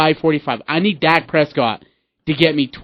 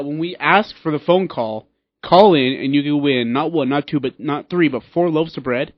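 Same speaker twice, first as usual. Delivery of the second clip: infomercial. Acted. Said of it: "You're like a, a late night infomercial guy".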